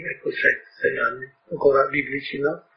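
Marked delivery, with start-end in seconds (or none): 0.0-1.3 hushed repeat. Real, not acted. Speaker musing to listeners, hushed and soft. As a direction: drop to a near whisper on sei anni. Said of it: "repeats the years, hushed".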